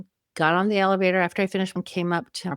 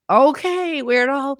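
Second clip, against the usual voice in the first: mock dismissive teen; 6 semitones higher, 5 dB louder, slower than usual. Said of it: "she looked at me like".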